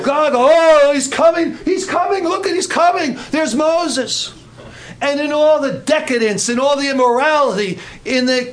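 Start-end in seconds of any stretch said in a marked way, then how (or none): 0.0-4.3 swooning women. Retold or imitated. Preacher voicing women swooning over Moses, high excited cries. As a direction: squeal like a starstruck fan.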